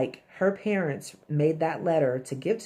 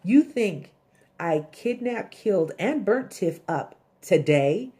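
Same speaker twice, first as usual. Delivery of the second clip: outraged; 4 semitones higher, 4 dB louder than usual. Retold or imitated. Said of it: "and he's like".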